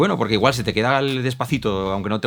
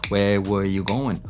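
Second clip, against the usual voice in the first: slow rhythmic WEH-wuh-you-GO-en; rhythmic contraction; much slower than usual. Shown as a demonstration. Teacher showing rhythm, slow contracted chant. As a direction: beat out "where were" without Rs, slowly. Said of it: "lo haces así con ritmo".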